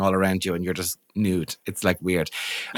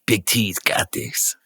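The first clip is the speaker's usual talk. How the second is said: cocky brush-off; 4 semitones lower than usual. Retold or imitated. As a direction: wave off the installer in a whisper. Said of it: "And you're like".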